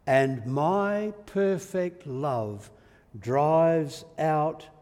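loud, drawn-out proclamation; powerful assurance. Acted. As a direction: declare it slowly and firmly, swelling in force. God assuring Elijah with force.

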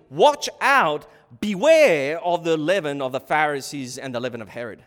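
emphatic quote, punching "Watch out"; emphatic caution. Retold or imitated. Preacher reading how Jesus cautioned them, emphatic caution. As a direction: hit "Watch out" loudly, then "beware". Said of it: "It's emphatic".

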